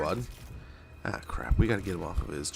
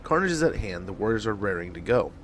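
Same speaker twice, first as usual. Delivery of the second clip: dramatic reading; 3 dB louder than usual. Acted. Reads mission briefing aloud.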